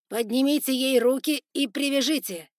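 loud high order; shouted command. Acted. Spider lord ordering guards to tie her up, shouting. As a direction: bark it at the guards.

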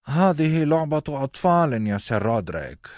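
put-on can't be bothered with child's play; bored prince. A narrator's reading. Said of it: "بدا عليه الملل".

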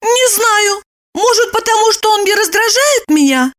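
high, startled woman's voice; taken aback. A narrator's reading. Lipochka stunned by Roman's question. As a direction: puzzle it out, caught off guard. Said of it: "Липочка опешила".

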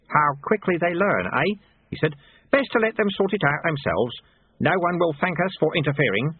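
put-on a mild, knowing old sweeper, pleased; lightly voiced wry old man enjoying the chaos; sly old monk. Lutze voiced by narrator.

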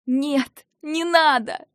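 high, loud frightened protest; struggling against restraints. Acted. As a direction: cry out while pulling free. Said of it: "Я попыталась вырваться".

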